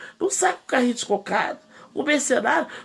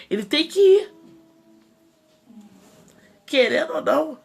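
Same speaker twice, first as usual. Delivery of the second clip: emphatic cry; 4 semitones higher than usual. Real, not acted. Preaching emphatic climax.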